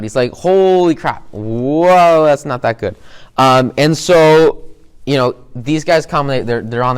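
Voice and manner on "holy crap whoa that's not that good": mock panic, then trailing down; freaking out. Discord overhearing the villains' plans, mild mock panic. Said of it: "like, freaking out".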